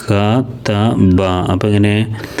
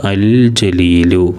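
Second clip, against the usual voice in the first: അൽ ജലീലു said slowly, syllable by syllable; slow model reading; much slower than usual. Shown as a demonstration. Teacher models the Arabic word for pupils, slow and careful. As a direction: spell out അൽ ജലീലു slowly for learners. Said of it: "എന്നാണ് വായിക്കുക".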